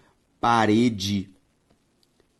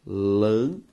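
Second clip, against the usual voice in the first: "lâmpada" split lâm... pa... da; syllable by syllable; 4 semitones lower, slower than usual. Shown as a demonstration. Teacher giving students the result of separation, syllable by syllable. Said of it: "Ao separar a palavra lâmpada".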